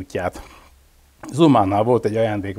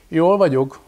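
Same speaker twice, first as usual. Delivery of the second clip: smiling; 6 semitones higher, 4 dB louder, slower than usual. A narrator's reading. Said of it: "mondta mosolyogva".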